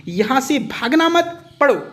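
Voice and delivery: "यहाँ से भागना मत पढ़ो" read slowly, leaning on "भागना"; slow, emphatic reading of "यहाँ से भागना मत पढ़ो"; deliberate sentence reading. Shown as a demonstration. Teacher reading out the ambiguous example "यहाँ से भागना मत पढ़ो", slow and emphatic. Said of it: "देखो, कॉमा का फर्क हो गया".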